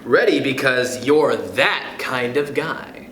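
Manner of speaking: lilting, rhythmic picture-book read; reading aloud to kids. Acted. Reading Oh, the Places You'll Go to listeners, rhythmic storybook voice. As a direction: bounce through the rhymes like a bedtime story.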